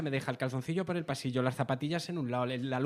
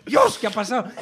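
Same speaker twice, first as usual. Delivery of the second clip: higher and louder startled exclamation; shocked; 6 semitones higher, 10 dB louder than usual. Retold or imitated. Father retelling his shock at his son's new voice, loud. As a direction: blurt it out in astonishment. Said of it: "Me quedé, digo".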